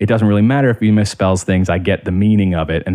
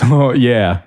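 sidekick voice; 2 semitones higher than usual. Retold or imitated. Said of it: "my sidekick kick who says".

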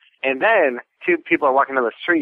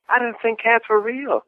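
put-on kid's voice; 10 semitones higher than usual. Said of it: "the kid's like".

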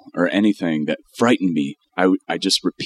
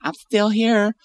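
much higher singsong taunt; taunting devil; 12 semitones higher than usual. Pretend. Cohost voicing the devil, mocking. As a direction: tease the exorcist from safety.

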